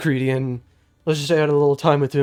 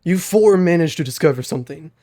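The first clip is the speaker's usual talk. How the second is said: lightly voiced deep old mentor; a hint of a groggy old man. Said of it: "my cringe Rise voice".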